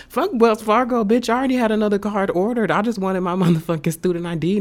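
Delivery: heated, high and loud venting; so mad. Real, not acted. Ranting about a stolen wallet and student ID, mad. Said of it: "I'm so mad".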